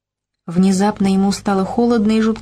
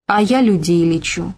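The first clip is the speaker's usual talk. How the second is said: a touch of amusing pride; proud declaration. Acted. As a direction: announce it with mock pride. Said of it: "заявила с насмешившей его гордостью". (с лёгкой гордостью)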